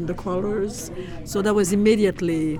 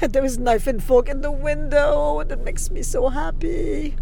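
much higher, thrilled exclamation; excited; 8 semitones higher than usual. Real, not acted. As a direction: squeal with delight at the sign. Spots beloved restaurant sign.

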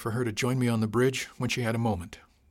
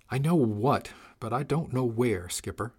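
put-on a light little girl voice, slightly edged; sweet voice with a hint of impatience; a small girlish voice gone a touch sharp; little girl voice with an edge. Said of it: "the little girl voice had a bit of an edge".

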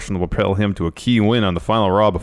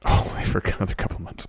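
mocking whisper; 5 dB quieter than usual. Real, not acted. Mocking the partner's claim.

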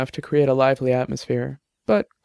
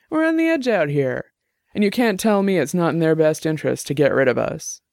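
higher-voiced Jenny, heated and arguing; argumentative tipsy woman; 4 semitones higher than usual. Tipsy Jenny arguing with her roommate's friend, heated. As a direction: push the point hard, a few drinks in.

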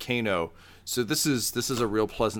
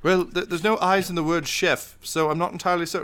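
high, hurried, hesitant reply; puzzled chef; 8 semitones higher than usual. Acted. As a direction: answer the riddle in a high, uncertain voice. Chef answers the riddle, puzzled.

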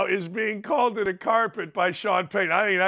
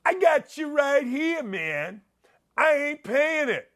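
defiant Sean Payton; 6 semitones higher than usual. Retold or imitated. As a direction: call it out like a cocky coach refusing to pay. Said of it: "good for Sean Payton for saying".

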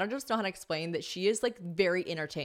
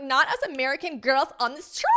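high, louder, hammed-up squeal; gleeful self-mockery; 8 semitones higher, 5 dB louder than usual. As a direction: revel in being the tourist, drawing out the end. Gleefully quoting herself on girls trip.

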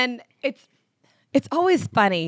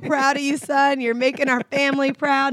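mock proud war-hero dad; 4 semitones higher than usual. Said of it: "as if he has gone to war and come back".

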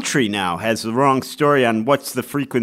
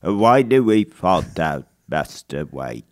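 Michael Caine impression; 7 semitones lower than usual. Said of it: "I can do a Michael Caine".

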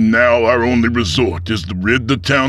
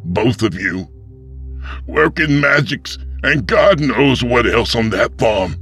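higher, loud accusing outburst; furious grandson; 12 semitones higher, 4 dB louder than usual. Acted. Tep accuses the pastor of killing his granddaddy, furious. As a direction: hurl it at the killer.

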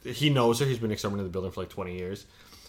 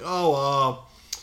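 put-on slow, higher, louder gossipy old lady; mock old lady; 6 semitones higher, 6 dB louder, slower than usual. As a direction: drawl it out like a cheeky old lady. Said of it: "He's like".

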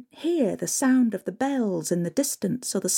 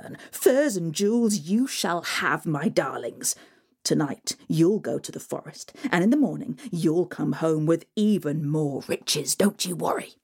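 a touch lower, sly and sweet; lightly voiced scheming stepmother; 3 semitones lower than usual. The stepmother reassures her greedy daughters, sly. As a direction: promise riches with a sly purr.

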